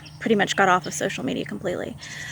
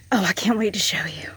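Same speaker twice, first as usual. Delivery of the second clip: whispering. Real, not acted. Excited whisper after gasp.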